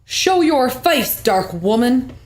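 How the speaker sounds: slow, drawn-out impression of Cricket; lightly voiced man summoning a spirit. Cricket calls out the dark woman, man voice. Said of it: "Enough of my man voice".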